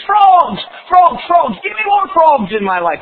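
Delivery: high, loud, greedy demand; loud craving. Acted. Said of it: "The backslidden Christian says".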